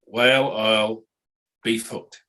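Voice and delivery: "Whale, isle, beef hooked" joined into one sentence; run-together words. Shown as a demonstration. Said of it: "Now say it quickly".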